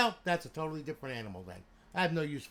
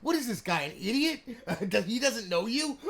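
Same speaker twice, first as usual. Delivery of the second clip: laughing; 7 semitones higher, 6 dB louder than usual. Retold or imitated. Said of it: "everybody was laughing".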